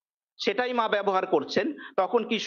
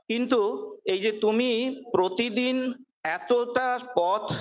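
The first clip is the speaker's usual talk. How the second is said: sweet and gentle. Retold or imitated. Mother gently tells Kishori why she refuses the water, sweetly. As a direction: kindly soothe a stubborn young disciple. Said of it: "মা এই সময় খুব মিষ্টি করে বলছেন".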